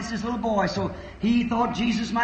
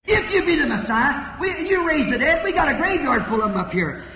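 mocking priests, laughing; 5 semitones higher, 3 dB louder than usual. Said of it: "he heard priests saying".

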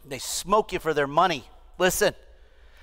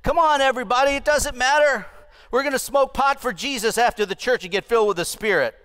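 carefree licentious voice; 5 semitones higher than usual. Pretend. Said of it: "the licentious says".

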